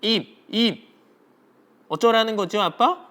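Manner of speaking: put-on high-pitched kid answering dad; acted child's baffled reply; puzzled child Minju. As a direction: play a child questioning dad, pitched well up. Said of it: "민주가 어떻게 얘기해요?".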